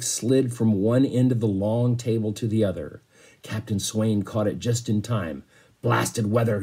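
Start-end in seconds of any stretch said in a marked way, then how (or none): 5.8-6.6 growl. Acted. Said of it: "he growled".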